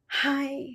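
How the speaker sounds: sharp gasp then a small breathy "Hi"; fearful gasped hi. Shown as a demonstration. Coach demonstrating a scared hello to seminar, gasping. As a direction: gasp in fright before saying "Hi". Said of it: "If you take a high breath".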